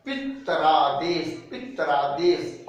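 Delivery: पितरादेश spelled out slowly, syllable by syllable; slow, clear पितरादेश twice; careful pronunciation. Shown as a demonstration. Teacher shows students the sandhi result पितरादेश slowly. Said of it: "तो और बन रहा है".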